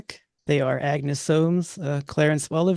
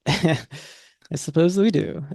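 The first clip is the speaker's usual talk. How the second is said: laughing; much slower than usual. Real, not acted. Laughs at the socks joke.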